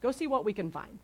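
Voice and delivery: playful can-do encouragement; upbeat Jesus. Retold or imitated. Jesus sends disciples to look for food, lightly upbeat. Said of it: "Jesus is like".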